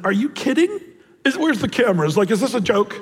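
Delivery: high-pitched mock disbelief; retold sarcastic questioning. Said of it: "me being somewhat of a sarcastic idiot".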